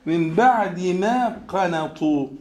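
من بعد ما قنطوا slowed, بعد stressed; slow focused quote. Shown as a demonstration. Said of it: "عايز أركز هنا على إيه؟". (تركيز بطيء على من بعد ما قنطوا)

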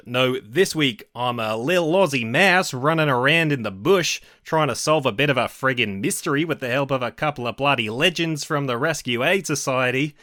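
light put-on Australian accent; a playful Aussie twang; mock Australian accent. Host introduces the episode in a mock Australian accent. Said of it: "one of the only accents I can vaguely do is an Australian accent".

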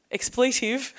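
high shocked outburst with a laugh; shocked exclamation. Retold or imitated. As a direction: blurt it out in disbelief. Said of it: "used a very shocked word".

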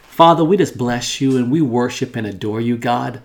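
earnest, pleading prayer voice, swelling in places; fervent prayer. Acted. Pastor praying over listeners and viewers, fervent prayer. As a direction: pray it out, calling on God.

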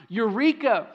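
a light retold shout of eureka; mild mock shout. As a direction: call out eureka, half-hearted. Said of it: "he shouts".

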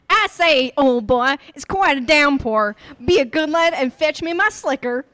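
loud plummy British gent; booming upper-class Englishman; clipped wartime posh. Acted. Reading card in a posh accent.

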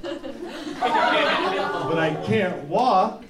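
drawn-out hammed-up complaint; mock desperate whine. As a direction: stretch the words out in mock agony. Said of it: "So I'm like".

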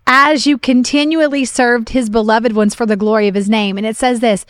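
emphatic, deliberate reading aloud; scripture reading. Real, not acted. Reading Hebrews chapter six to encourage ministers, emphatic scripture reading. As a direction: press each phrase home to the listeners.

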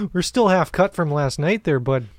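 hungover Canadian buddy; put-on Canadian accent. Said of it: "very Canadian accent?".

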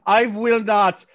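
put-on French accent, haltingly refusing. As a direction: balk as a mock French commercial actor. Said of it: "They hired a French guy".

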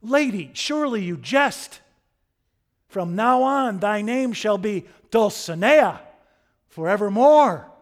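high, very loud chivalric proclamation; ringing, theatrical courtly declaration; Quixote. Acted. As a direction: bestow a new name with grand knightly fervor. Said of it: "Quixote says".

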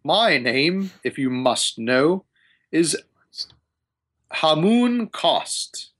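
lightly voiced aloof wizard, deliberate pauses; haughty wizard. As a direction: introduce yourself like a self-important wizard. GM voices wizard Hamun Kost.

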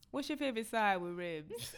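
loud teasing question; mock shout. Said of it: "Charlamagne was like".

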